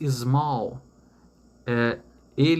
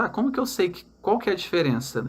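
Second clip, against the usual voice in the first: higher, quicker student's question; puzzled student; 6 semitones higher, faster than usual. Acted. Student asking teacher how to tell the difference, puzzled and higher. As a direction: voice a puzzled learner, pitched up. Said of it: "E aí você me pergunta".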